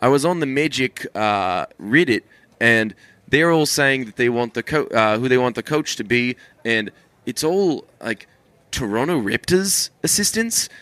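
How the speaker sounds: lightly imitated New Zealand accent. Podcast host quoting the Magic Reddit, New Zealand accent. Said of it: "it sounds so awesome with New Zealand accents".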